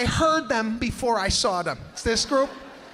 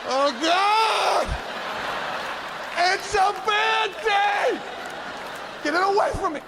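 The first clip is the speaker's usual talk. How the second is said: phobic panic; 12 semitones higher than usual. Pretend. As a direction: scream in disgusted horror. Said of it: "You're like".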